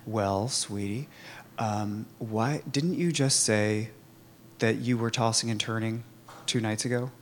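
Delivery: gently retold calm question, unhurried; soothing sponsor voice, lightly imitated. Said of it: "she very calmly said".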